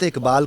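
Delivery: "اقبال" with the first vowel changed to "a", as "Akbal"; mispronounced Iqbal. Shown as a demonstration. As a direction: say "اقبال" wrongly with zabar for zer. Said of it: "حضرت اقبال کو آپ کہہ دیں". ("اقبال" زیر کی جگہ زبر سے)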